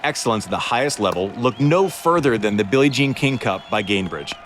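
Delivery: polished commercial voiceover; ad read. Acted. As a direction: read it like a sponsor spot. Sponsored ad read.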